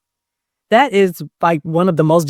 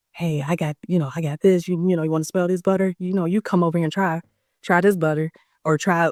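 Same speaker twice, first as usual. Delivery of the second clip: hushed, softer sales whisper to the customer; sneaky quiet pitch; 6 dB quieter than usual. Retold or imitated. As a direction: mimic a vendor luring a customer on the sly. Rival vendor's sneaky pitch retold.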